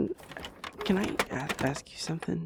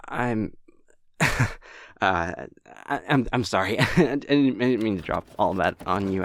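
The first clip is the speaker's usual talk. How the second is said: louder, with nervous laughs through the words; embarrassed laughing apology; 3 semitones lower, 5 dB louder than usual. Acted. Clerk apologizing to the helper for oversharing, nervous laughter. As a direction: laugh off the awkward confession.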